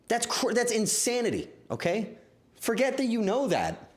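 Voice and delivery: why would you remember that; incredulous. Real, not acted. Streamer to chat about the butt joke, incredulous.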